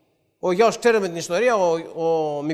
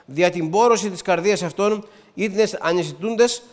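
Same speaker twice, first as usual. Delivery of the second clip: scripture reading. Real, not acted. Reads Ephesians aloud.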